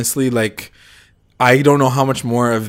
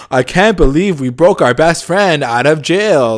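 mild mock yell; 4 semitones higher, 5 dB louder, slower than usual. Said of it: "screaming at the top of his lungs".

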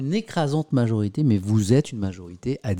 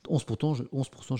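normal talking voice

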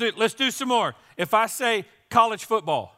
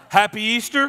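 louder and higher, really bright and cheering; enthusiastic greeting; 4 semitones higher, 7 dB louder than usual. Shown as a demonstration. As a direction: give it more energy this time, rally the crowd. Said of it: "I'm gonna give you another chance".

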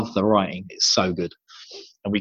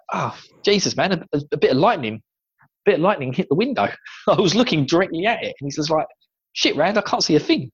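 higher, fast, rattled friend; dazed Matt; 5 semitones higher than usual. Retold or imitated. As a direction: blurt it out high and shaken. Matt voiced after lightning blast.

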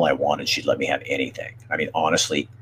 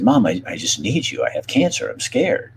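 higher-pitched, upset plea to mom; retold sobbing plea; 4 semitones higher than usual. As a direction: relive a scared plea, pitch climbing. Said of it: "I just started sobbing".

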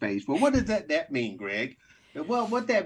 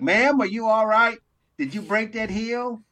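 mock concerned helper; 4 semitones higher, 3 dB louder than usual. Acts helper addressing fallen woman.

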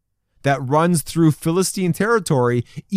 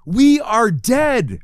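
mild mock panic, pitched higher; acted freaking out; 5 semitones higher than usual. Preacher voices trapped Israelites seeing Pharaoh's army, mock panic. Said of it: "They're freaking out".

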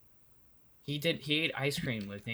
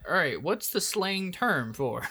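slow game show host; 6 semitones higher, slower than usual. Retold or imitated. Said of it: "he would be like".

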